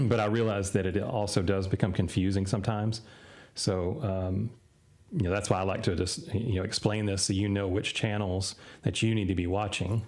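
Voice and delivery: a tired, hoarse speaking voice. Real, not acted. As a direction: voice going hoarse. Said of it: "I'm losing my voice".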